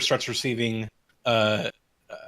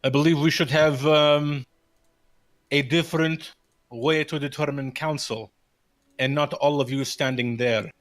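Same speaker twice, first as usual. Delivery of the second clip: raised, firm public challenge; said out loud; 2 semitones higher, 3 dB louder than usual. Acted. Erwin challenges the council out loud, raised and firm. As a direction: Erwin calls it out loud to the crowd. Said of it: "out loud".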